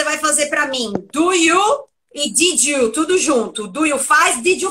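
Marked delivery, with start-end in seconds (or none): 2.3-2.9 "did you" linked as "didju"; J sound. Shown as a demonstration. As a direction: blend "did you" with a J in the middle. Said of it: "Som de J".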